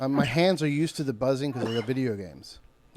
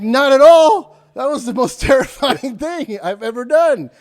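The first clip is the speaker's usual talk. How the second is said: high, loud mock outburst with a laugh; hammed-up terrified reply; retold outburst; 10 semitones higher, 12 dB louder, slower than usual. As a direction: blurt it out, still shaken. Answering the guy after landing.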